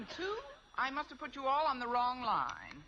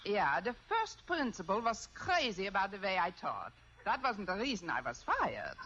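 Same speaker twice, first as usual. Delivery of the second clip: fake German accent; 3 semitones lower than usual. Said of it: "If I can do a decent German accent".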